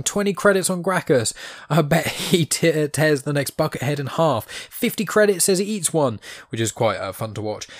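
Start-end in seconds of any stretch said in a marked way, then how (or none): 0.0-6.2 high, shouted bets from the stands; mock crowd betting. Gamblers in the arena shouting bets, mock yell. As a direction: bark out wagers like rowdy spectators. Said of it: "the crowd are yelling".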